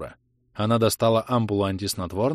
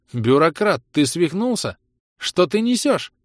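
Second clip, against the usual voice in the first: outraged shout; 8 semitones higher, 5 dB louder than usual. Acted.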